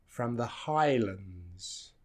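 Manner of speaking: slow phrase, weak "-lands" in "Highlands"; reduced second syllable. Shown as a demonstration. Teacher modelling the line, reduced second syllable. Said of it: "the second part is reduced".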